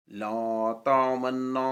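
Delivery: very slow, sustained recitation; Quranic recitation. Shown as a demonstration. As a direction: hold the long vowels and the nasal n. (قرآنی تلاوت، ٹھہر ٹھہر کر)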